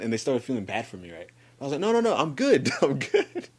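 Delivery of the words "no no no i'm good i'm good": high-pitched, laughing brush-off; retold protest breaking into laughter; laughing reassurance. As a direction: laugh away their worry, voice raised. Laughingly reassuring worried friends.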